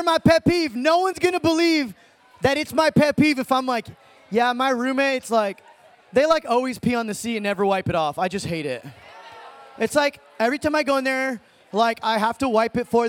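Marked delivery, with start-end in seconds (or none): 4.3-8.8 unenthusiastic. Shown as a demonstration. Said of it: "as passionately as you can".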